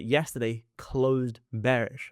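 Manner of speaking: "closed" set apart and drawn out for emphasis; stress on closed. Real, not acted. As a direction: lean on the word "closed", giving it room. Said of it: "I'm emphasizing the word closed".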